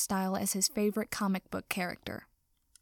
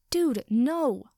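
high, loud protest; yowling; 4 semitones higher, 5 dB louder than usual. A narrator's reading. Cat-cursed host stopping damage to his house, yowling. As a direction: yowl it like an alarmed cat. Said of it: "Sero yowled".

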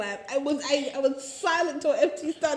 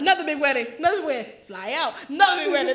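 excited; 5 dB louder, faster than usual. Real, not acted. Excited repeated shout, laughing.

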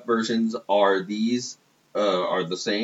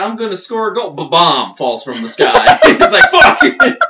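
excited shriek; 9 semitones higher, 13 dB louder than usual. Retold or imitated. Excited goal story, bomb falls.

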